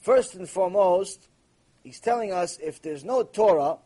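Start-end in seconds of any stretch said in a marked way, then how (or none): none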